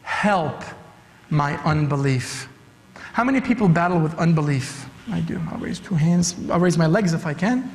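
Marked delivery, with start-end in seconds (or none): 0.0-2.5 desperate plea. Acted. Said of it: "It was desperate".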